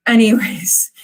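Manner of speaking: breathy whispered aside. Real, not acted. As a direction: whisper it to steer away from tears. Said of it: "I'm gonna get all emotional".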